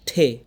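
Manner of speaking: "ঠে" with a clear puff on the t; aspirated T. Shown as a demonstration. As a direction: burst air into "ঠে". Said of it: "ঠ করতেছি".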